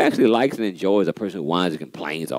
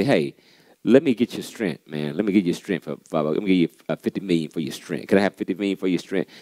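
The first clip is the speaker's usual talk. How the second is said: a lightly voiced rich buyer, lower and softer; rich man's offer; 3 semitones lower, 3 dB quieter than usual. Rich man making an offer to buy your strength, lightly voiced. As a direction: casually tempt him with money. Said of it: "people got money will come up to you and say".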